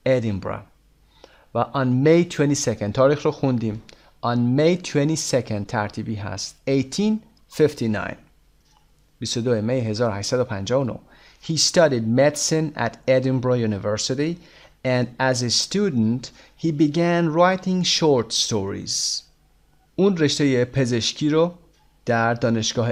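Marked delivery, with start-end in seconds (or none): 0.1-0.6 "ادینبرا" ending in "-bra", no hard g; English pronunciation. Shown as a demonstration. 11.4-19.2 slow, carefully spaced English reading; slow teaching read-aloud. Shown as a demonstration. Reads English text for learners.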